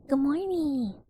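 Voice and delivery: hint of a ghost greeting. Shown as a demonstration. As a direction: moan it like a friendly ghost. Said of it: "but ghost voice".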